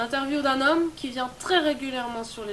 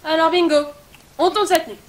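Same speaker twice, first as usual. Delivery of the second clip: louder, bursting with glee at the plan; excited; 3 semitones higher, 8 dB louder than usual. Acted. Producer announcing the night shoot, excited and loud. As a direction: cheer it out like a win. Deciding to shoot tonight, thrilled.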